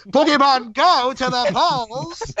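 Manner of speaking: drawn-out high sing-song line; slow silly catchphrase. Acted. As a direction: stretch it out high and goofy.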